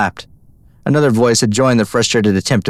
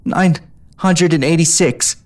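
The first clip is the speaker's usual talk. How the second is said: through gritted teeth; 7 semitones higher, slower than usual. A narrator's reading. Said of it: "She grit her teeth".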